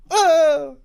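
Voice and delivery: loud high dying shout; death cry. Pretend. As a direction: scream like a dying hunter. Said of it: "hearing the death sound".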